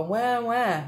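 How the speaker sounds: lightly imitated crying wail; a half-hearted mock sob; mock bawling. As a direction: fake a childish wah wah. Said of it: "sit here and go".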